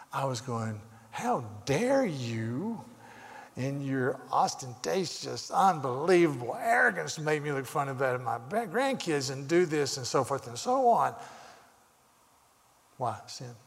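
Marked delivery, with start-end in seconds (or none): 1.1-10.0 slow, drawn-out "how dare you" outrage, mildly hammed-up; indignant inner tirade. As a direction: replay a silent scolding with mock indignation. Indignant inner tirade at rude stranger.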